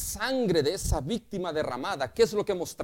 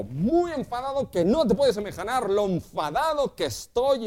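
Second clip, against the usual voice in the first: raised, louder voice of a fuming father granting pardon; angry forgiving father; 5 semitones higher, 4 dB louder than usual. Retold or imitated. Father tells his son he forgives him, still furious. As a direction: spit out the forgiveness through anger. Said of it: "lo perdona de esta manera. Le dice".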